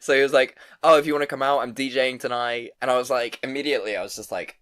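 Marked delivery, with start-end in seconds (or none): 0.8-2.7 put-on a louder, higher second go at an Italian accent; half-laughing Italian accent, pushed harder; retry Italian accent. Quoting the Italian DJ again in a louder mock Italian accent. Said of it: "I can't do an Italian accent".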